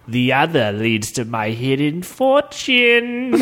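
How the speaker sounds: slow, otherworldly ghost voice. Acted. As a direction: intone it like a ghost. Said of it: "continued the ghost".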